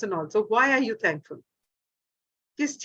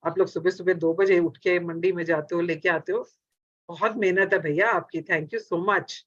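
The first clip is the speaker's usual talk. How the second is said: lower, fond thanks to the seller; said lovingly; 4 semitones lower, faster than usual. Retold or imitated. Customer thanking the vegetable seller, lovingly. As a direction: praise him like he truly earned it. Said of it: "बड़े प्यार से बोले".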